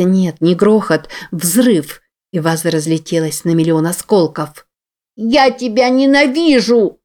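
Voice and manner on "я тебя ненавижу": put-on high, slow, hateful child's cry; a little girl screaming at her mother. A narrator's reading.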